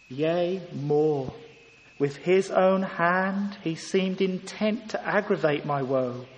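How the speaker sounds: slow, solemn reading of the hymn verse; measured hymn reading, lines trailing low; hymn recitation. Acted. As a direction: let each line of the hymn sink in slowly. Reads hymn verse aloud.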